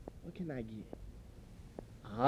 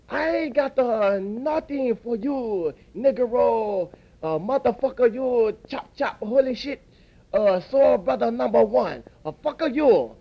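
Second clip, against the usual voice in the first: angry shopkeeper; 3 semitones higher than usual. Acted. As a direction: tell off a rude customer in a put-on accent. Worker shouting back at customer.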